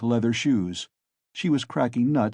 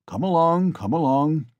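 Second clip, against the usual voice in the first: soothing father; 5 semitones higher, 4 dB louder than usual. A narrator's reading. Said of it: "said his father".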